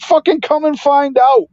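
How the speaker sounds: high-pitched fighting challenge, acted out; retold defiant dare. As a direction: dare them, replaying a teenage face-off.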